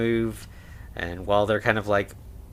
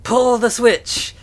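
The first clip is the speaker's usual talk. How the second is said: high, drawn-out, louder yell; mad scientist yell; 11 semitones higher, 6 dB louder, slower than usual. Retold or imitated. Igor ordering the creature brought to life, yelling. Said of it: "and he yells".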